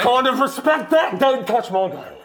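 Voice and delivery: hammed-up Aussie-ish accent on every line; lightly put-on antipodean accent, threatening the host; weird put-on accent. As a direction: play Coco the tough Yeti, mock menacing. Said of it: "that's a weird fucking accent".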